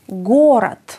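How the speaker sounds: Γκόρατ ending in a clear "t", not "d"; final d as t. Shown as a demonstration. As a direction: stress the first syllable of Γκόρατ and devoice the end. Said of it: "αντί για δ, προφέρουμε καθαρά το". (Γκόρατ με καθαρό τελικό «τ» αντί για «ντ»)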